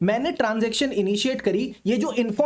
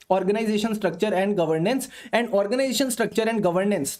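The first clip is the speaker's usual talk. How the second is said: slow dictation; much slower than usual. Shown as a demonstration. Dictating next point twice.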